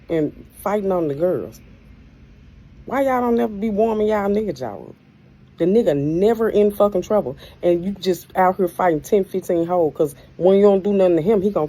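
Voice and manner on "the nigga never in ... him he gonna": louder, scolding the audience; heated rant. Real, not acted. Ranting at women who fight.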